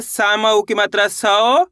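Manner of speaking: सौ held long with a rising end; stress on सौ. Shown as a demonstration. Teacher shows where the force goes, सौ drawn out and stressed. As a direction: spell it out, then stretch सौ upward. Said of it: "सा पे आपको जोर लगाना है".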